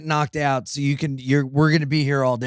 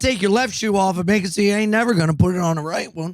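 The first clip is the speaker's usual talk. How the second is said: lightly hammed old-timey fight threat; old-timey tough talk; 4 semitones higher than usual. Comic recalling his silly threats before a fight, lightly old-timey bluster. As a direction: threaten like an old-time scrapper, playfully. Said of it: "old-timey".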